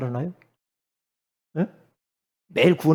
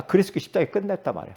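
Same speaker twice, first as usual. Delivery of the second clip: ordinary talk, nothing marked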